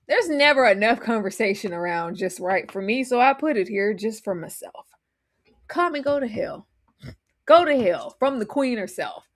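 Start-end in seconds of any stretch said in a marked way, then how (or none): 5.7-9.3 whispered curse; breathy whispered dismissal. Real, not acted. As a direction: hiss it under the breath.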